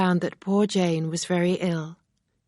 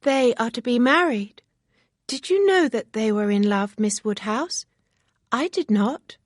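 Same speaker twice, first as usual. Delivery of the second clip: higher, lightly voiced young girl; excited chatter; Harriet, eager and girlish; 6 semitones higher, 5 dB louder than usual. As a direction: naive young lady, raised voice.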